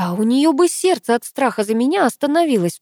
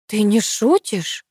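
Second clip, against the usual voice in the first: exclaiming; 3 semitones higher, slower than usual. A narrator's reading. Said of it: "снова воскликнула бабуля".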